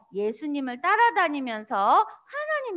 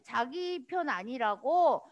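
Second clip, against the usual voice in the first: ordinary talk, nothing marked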